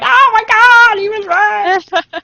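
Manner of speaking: high amazed squeal, slowing. Retold or imitated. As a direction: gasp it out in disbelief. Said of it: "I was like".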